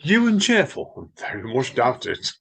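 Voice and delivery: teasing doubt; mock disbelief. Real, not acted. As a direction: scoff at the idea playfully.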